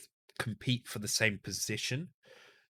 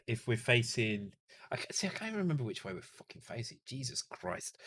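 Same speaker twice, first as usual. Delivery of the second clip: tipsy, fast and frustrated; 3 semitones higher than usual. Real, not acted. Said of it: "really drunk".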